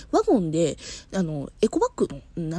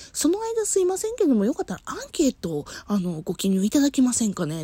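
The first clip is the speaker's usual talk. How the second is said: higher, sweet apologetic clerk; polite shop clerk; 5 semitones higher than usual. Retold or imitated. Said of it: "っていうふうに".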